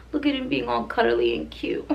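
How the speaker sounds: whispering so as not to wake him; hushed cooing over the pup; whispering fondly about the cuddly puppy. Real, not acted.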